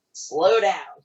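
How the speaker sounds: firm mock command; director's instruction. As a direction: quote the director, punching it out. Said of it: "he said".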